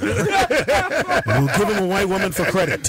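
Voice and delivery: mock announcer.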